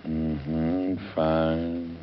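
husband half-listening to his wife, grunting replies; distracted grunting. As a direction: grunt along without really listening. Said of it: "you're grunting and not listening".

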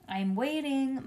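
high-pitched impatient call; shouting mother. A narrator's reading. Mother waits for the tool belt, shouting mildly. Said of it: "shouted Mother".

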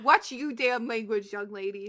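mild mock growl; growled scolding. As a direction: scold like a cross mother. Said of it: "She growled".

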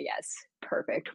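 a hushed, breathy yes, perfect under the breath; whispered delight. Retold or imitated. Fan recalling a favourite Tennant callback, whispering happily. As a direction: whisper it to yourself as the moment lands. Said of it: "I was like".

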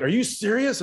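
high-pitched, incredulous imitation of a teammate; mock tearful disbelief. Teammate asks again after the pitch, mock tearful disbelief. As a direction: play him stunned and nearly welling up, voice lifted high. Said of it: "almost tearing up".

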